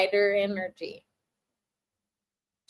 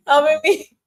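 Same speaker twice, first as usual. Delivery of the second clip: higher, louder disbelieving echo of helping; incredulous echo; 5 semitones higher, 8 dB louder than usual. Real, not acted. Repeating the viewer's question in disbelief, incredulous. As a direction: throw helping back as a question. Echoing the chat question back.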